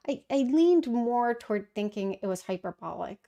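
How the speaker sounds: hushed, unvoiced aside; whispering. Real, not acted. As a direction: drop to a whisper as you admit it. Aside after her bombshell.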